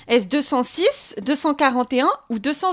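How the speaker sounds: deux cent six said slowly and clearly for a listener who asked again. Shown as a demonstration. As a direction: spell out the first option at a slow, careful pace. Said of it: "vous répétez peut-être la question". (répétition lente et articulée de deux cent six)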